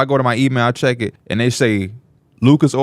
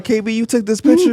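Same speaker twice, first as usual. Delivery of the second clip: higher, hammed-up Mike voice leaning in; acting as Mike; 9 semitones higher than usual. Retelling the Uber ride, acting out Mike in the driver's face. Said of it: "I'm Mike".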